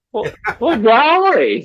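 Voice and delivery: Gomer Pyle. Retold or imitated. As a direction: play dumb, high and dopey. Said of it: "playing dumb voice".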